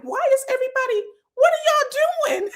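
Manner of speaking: a cry of "what is going on here"; baffled shout. Retold or imitated. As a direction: yell it in total disbelief. Speaker's own baffled reaction on set.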